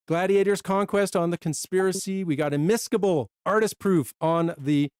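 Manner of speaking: breathless from listing; running short of breath while reading. Real, not acted. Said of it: "running out of breath".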